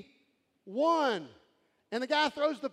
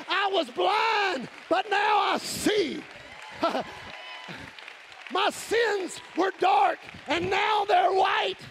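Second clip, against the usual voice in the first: slow, higher, louder proclaiming shout; joyful proclamation; 6 semitones higher, 4 dB louder, slower than usual. Acted. Preacher testifying to the congregation, slow joyful shout. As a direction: proclaim it slowly with full joy.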